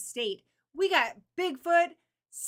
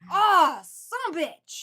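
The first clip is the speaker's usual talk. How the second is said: drawn-out mock curse; 3 semitones higher, 8 dB louder, much slower than usual.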